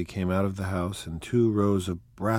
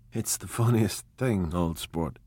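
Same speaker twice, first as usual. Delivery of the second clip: hilarious. Acted. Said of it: "he said hilariously".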